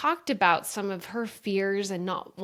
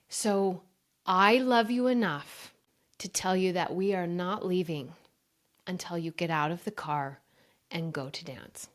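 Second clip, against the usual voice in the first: firm, loving. Retold or imitated. Mom firmly tells crying daughter.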